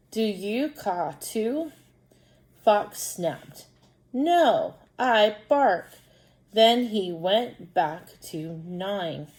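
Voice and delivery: slow, deliberate story reading; children's story read-aloud. Acted. Teacher reading a crow story to pupils, slow storytelling. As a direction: read slowly and clearly for young pupils. Reads story with character lines.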